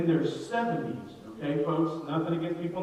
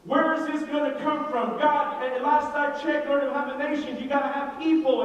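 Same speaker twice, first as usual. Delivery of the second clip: put-on a pleading old man, pitched up; exasperated Abraham; 8 semitones higher than usual. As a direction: play Abraham baffled at the promise. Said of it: "I'm sure Abraham is going".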